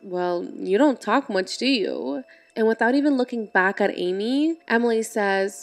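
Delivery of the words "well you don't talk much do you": slow, mildly sarcastic remark. Acted. Girl to silent playmate on play date, mildly sarcastic. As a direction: draw it out with a touch of sarcasm. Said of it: "she sarcastically says".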